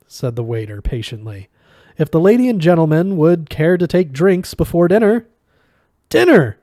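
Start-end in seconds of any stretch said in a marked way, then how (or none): 2.0-5.3 polite waiter. Acted. 6.1-6.6 high, loud hungry cry; passionate exclamation. Acted. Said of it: "Zaphod exclaimed with passion".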